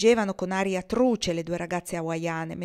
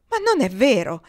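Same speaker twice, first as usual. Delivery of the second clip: loud, higher-pitched protest; raised-voice objection; exclaiming; 4 semitones higher, 8 dB louder than usual. A narrator's reading. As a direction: exclaim it as a forceful denial. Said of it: "esclamò Kendra".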